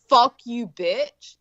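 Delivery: firm, punched insult, falling away on the last word; curt mock-serious put-down; hostile demo. Shown as a demonstration. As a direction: say it as a real insult. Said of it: "that's very different".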